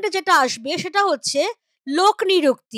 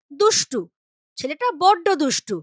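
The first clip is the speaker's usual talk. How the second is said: দুষ্টু said fondly, with a final u; a touch of tenderness on দুষ্টু; affectionate. Shown as a demonstration. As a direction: coo দুষ্টু as if to a dear child. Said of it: "একটু বেশি আদর".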